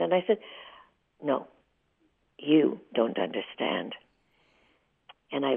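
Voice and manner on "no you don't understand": cold retort. Retold or imitated. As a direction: hand his words back, icy and deliberate. She throws his words back.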